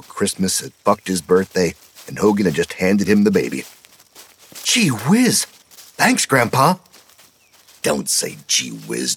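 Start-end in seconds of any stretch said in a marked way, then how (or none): 4.6-6.8 put-on high, thrilled kid's thanks; bubbling over at the gift; delighted boy. A narrator's reading. Petey thanking Hogan for the knife, high and thrilled. 7.8-9.2 low, slow mock-disgusted rebuke; gruff scolding. A narrator's reading. Hogan scolding Petey, low and slow.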